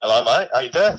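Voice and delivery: a lightly put-on, weak Australian accent; a mock Aussie bloke voice, barely there; poor Australian accent. A severed hand calls the stream in a poor Australian accent. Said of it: "So you've gone for an Australian".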